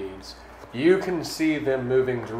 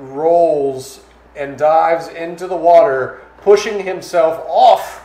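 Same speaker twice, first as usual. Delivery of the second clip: dramatic, drawn-out action narration; emphatic storyteller build, easing off at the end; game master's scene setting; 2 semitones higher, 6 dB louder, slower than usual. Acted. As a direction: narrate the monster attack with weight. Game master narrates the sea attack.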